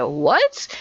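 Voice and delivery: mock disbelief, rising question; incredulous. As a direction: pitch leaps up at the end. Manager shocked, retold.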